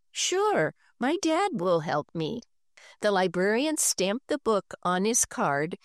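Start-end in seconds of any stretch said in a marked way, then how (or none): 0.1-2.4 put-on eager boy. Henry eagerly accepts.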